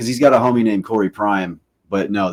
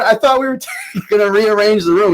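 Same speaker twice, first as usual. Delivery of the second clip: high, loud objection broken by laughter; laughing protest; 11 semitones higher, 7 dB louder than usual. Retold or imitated. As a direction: protest while cracking up. Retold protest, breaking into laughter.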